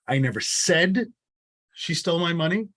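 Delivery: said lifted with a rising tune; stress on said. Shown as a demonstration. Teacher showing the class stress on said. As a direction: put the weight on the word said. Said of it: "I'll prove it to you".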